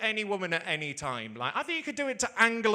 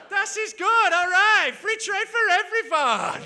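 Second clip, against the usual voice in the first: high, loud mock German accent; Angela Merkel; 11 semitones higher, 10 dB louder, slower than usual. Chancellor giving in with free trade, shouted mock German accent. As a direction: cry it out in a comic German accent. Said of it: "That's how she sounds".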